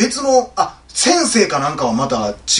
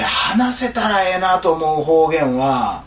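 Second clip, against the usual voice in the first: slow Kansai re-reading with "ええな"; Kansai dialect; much slower than usual. Shown as a demonstration. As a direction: draw the line out in Kansai dialect. 関西弁に言い換えて読み直す. (関西弁でゆっくり読み直す)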